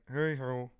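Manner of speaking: rough attempt at a frog puppet voice; lightly put-on frog character voice; Kermit. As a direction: do a bad frog puppet impression. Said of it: "he's like".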